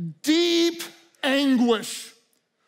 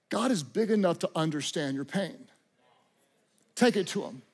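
gentle reassurance; 6 semitones lower, 5 dB quieter, faster than usual. Acted. Preacher drops to gentle reassurance.

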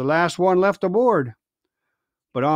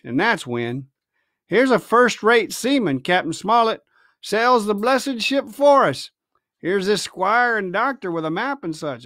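scheming pirate; 4 semitones higher than usual. Acted. Silver explaining plans.

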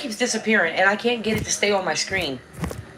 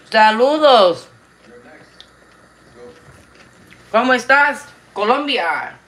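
excited loud greeting; 4 semitones higher, 6 dB louder than usual. Real, not acted. Greets Colombian viewers loudly.

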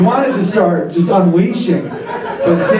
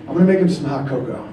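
fast, soft, lightly voiced girlfriend; a hint of a caring girlfriend; girlfriend's idea; 7 semitones lower, 5 dB quieter, faster than usual. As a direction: rattle it off like a sweet plan. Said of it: "she'd be like".

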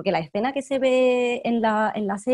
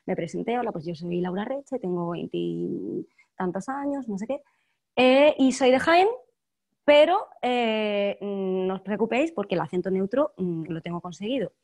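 carefully castellanized Spanish, every s sounded; neutral Castilian accent. Shown as a demonstration. Actress tells a casting story to show off neutral Castilian. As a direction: speak trained neutral Castilian, hiding the Andalusian. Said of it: "te voy a hablar con el castellano neutro".

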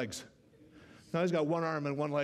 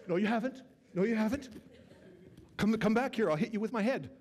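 Black Knight; 8 semitones higher than usual. Retold or imitated. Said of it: "He goes".

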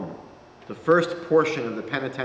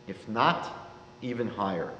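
quietly; 5 semitones lower, 6 dB quieter than usual. A narrator's reading. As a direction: say it hushed, with awe. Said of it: "He only adds quietly".

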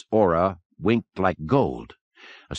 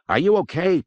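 high, concerned call; raised-pitch shout of concern, moderate volume; 10 semitones higher than usual. A narrator's reading. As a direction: call up to someone above. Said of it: "Pete called up".

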